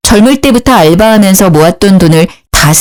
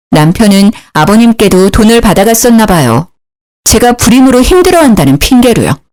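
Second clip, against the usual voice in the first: usual speaking voice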